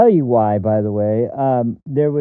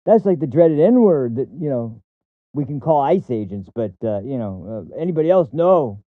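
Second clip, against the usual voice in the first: mock outrage. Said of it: "Brian is acting like".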